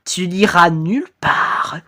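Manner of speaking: slow, lightly ominous phantom; menacing ghost. Acted. Ghost stopping the fleeing victim, slow mild menace. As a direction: draw the threat out a little.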